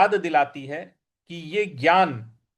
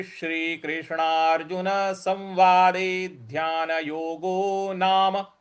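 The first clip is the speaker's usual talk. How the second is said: slow chanted Sanskrit colophon; full recitation; slower than usual. Shown as a demonstration. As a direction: recite it slowly, with reverence. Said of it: "पूरा उच्चारण कैसा हो रहा है". (धीमा श्रद्धापूर्ण पाठ)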